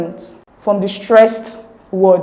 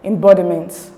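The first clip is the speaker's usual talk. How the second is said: emBODiment, "bod" punched louder; stress on BOD; 5 dB louder than usual. Shown as a demonstration. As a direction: hit the second syllable of embodiment. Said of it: "the stress is in bod".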